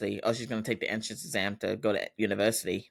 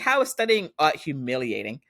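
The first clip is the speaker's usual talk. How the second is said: higher-pitched retold disbelief; indignant challenge; 4 semitones higher than usual. Daughter defending studying art to her dad, indignant. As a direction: question it as if absurd.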